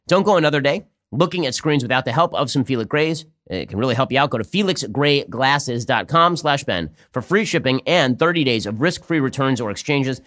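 upbeat sponsor read, the web address slowed right down. Acted. Host reading a glasses ad to viewers, upbeat ad read. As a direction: sell the glasses to listeners like a radio spot.

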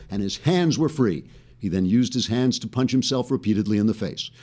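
straight-faced mock news monologue; measured, scripted newscaster delivery; deadpan news read. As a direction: read satire like a serious news report. Scripted monologue and show intro.

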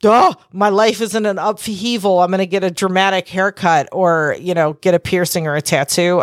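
sing-song mock of her own midlife impulse; lilting, self-mocking singsong; mock dramatic. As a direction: parody the urge to cut your hair after upheaval. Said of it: "it's kinda like when you're like".

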